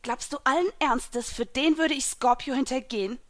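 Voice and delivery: a touch of indignant mermaid; understated irritated retort; lightly hissed challenge; mild hiss. A narrator's reading. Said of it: "zischte die Meerjungfrau".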